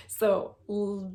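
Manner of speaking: ordinary talk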